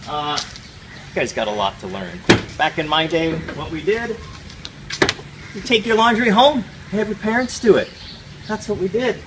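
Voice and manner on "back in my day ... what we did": put-on louder, higher, faster old-timer rant; back in my day rant. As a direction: preach like a grumpy old-timer. Old-timer lecture to students.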